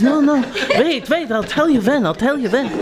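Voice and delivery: put-on laughing old man. Joke's old husband telling wife to wait, laughing. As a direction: hold her off while cracking up.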